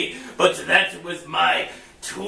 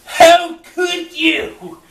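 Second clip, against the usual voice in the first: slow, loud, high disbelief; shocked outcry; 9 semitones higher, 7 dB louder, slower than usual. Acted. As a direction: cry out in betrayal. Shocked betrayal.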